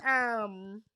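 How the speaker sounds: whispered hesitation. Real, not acted. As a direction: whisper um while thinking. Searching for a word.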